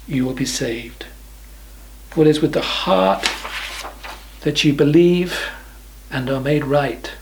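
measured scripture reading with long pauses; slow reading. Real, not acted. Preacher reading Paul's words to listeners, slowly and deliberately. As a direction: read it phrase by phrase, leaving space after each. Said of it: "Let me read them slowly to you".

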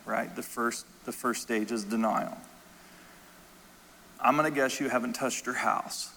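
low, soft, careful pauses; gentle confrontation. Retold or imitated. Pastor to a widow in denial of grief, gently and low. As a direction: ease into a hard truth quietly.

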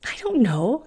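snapped. Acted. Bellamy snaps at Fiona's questions, irritated snap. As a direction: bite the answer off short. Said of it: "he snapped".

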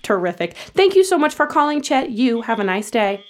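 bright, brisk scripted survey read; customer service voice. Acted. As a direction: rattle off the survey cheerfully.

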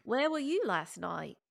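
slow British accent that lands Australian; shaky-aim British, veering Australian; attempted British accent. Shown as a demonstration. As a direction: try a British accent, drawn out. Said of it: "Can it be British?".

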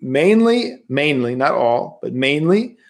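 MAINLY repeated with deliberate stress; emphatic repetition. Real, not acted. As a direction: MAINLY set apart and stressed for the listener. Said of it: "I repeat".

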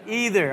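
"Either" said as "EE-ther"; ee-ther pronunciation. Shown as a demonstration. Pastor repeating his studied answer, ee-ther pronunciation. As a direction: start "Either" with a long e. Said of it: "this is how you say it".

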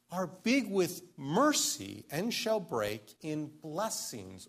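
slow, deliberate hymn recitation with long pauses; slow reading. Shown as a demonstration. Preacher reads hymn verses to the congregation, slowly. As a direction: read the verse slowly, weighing each word. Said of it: "I'll read it slowly".

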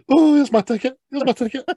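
high, loud panicked passenger; scared passenger. Retold or imitated. Frightened passengers squeaking up to the officer. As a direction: squeak it up high, hurrying to please. Passengers hurriedly showing tickets.

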